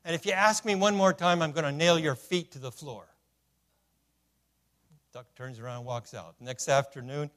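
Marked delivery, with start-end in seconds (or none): 0.0-3.1 a touch of exasperated clerk; fed-up shopkeeper, lightly voiced; mock angry clerk. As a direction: clerk losing patience with duck. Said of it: "this made the clerk angry".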